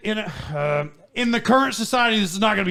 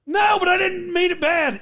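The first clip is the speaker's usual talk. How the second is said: higher, louder protesting cry; retold protest; 11 semitones higher, 3 dB louder than usual. Student protesting to the assistant principal, pleading shout. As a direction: plead your innocence, raising the voice.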